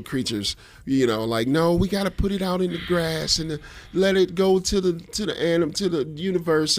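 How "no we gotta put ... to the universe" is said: higher, sing-song put-on voice; mock bug-saver voice. Host mocking people who put bugs out in grass, high put-on voice. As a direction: mimic an earnest rescuer of little creatures. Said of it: "I don't know why I'm saying it in that voice".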